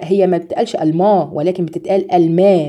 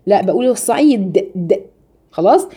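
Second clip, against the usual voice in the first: ordinary talk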